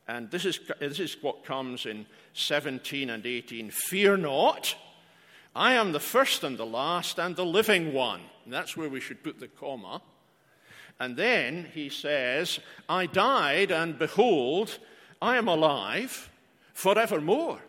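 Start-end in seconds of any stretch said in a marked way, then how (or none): 3.7-8.2 1 proclaiming scripture. Acted. Reads Christ's words from Revelation. 12.9-17.6 ringing proclamation. Acted. Reads Christ's words from Revelation.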